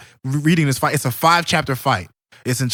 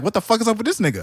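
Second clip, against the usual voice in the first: higher and fast, alarmed; freaked-out viewer; 7 semitones higher, faster than usual. Retold or imitated. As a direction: rattle it off in disbelief. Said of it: "You're like".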